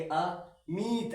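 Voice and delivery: अमित very slow, the i stretched; long i. Shown as a demonstration. Teacher demonstrates reading the big matra, long i. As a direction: say अमित in two parts, holding the i. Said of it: "ऐसे करके बोलेंगे".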